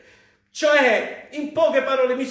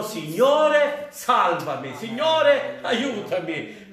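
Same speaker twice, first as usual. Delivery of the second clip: crying for rescue; slower than usual. Acted. I fedeli gridano a Dio per essere salvati. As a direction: call out to God for help. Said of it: "altri che gridano".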